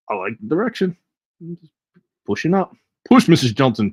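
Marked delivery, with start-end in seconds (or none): 3.1-3.9 louder urging "Push", falling at the end; mock midwife cheer. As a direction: coax the chart upward like a delivery.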